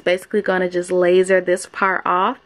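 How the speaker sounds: lip held up by finger; talking around own finger; finger in mouth. Real, not acted. Seen 1: Finger inside upper lip, pressing gums while she speaks.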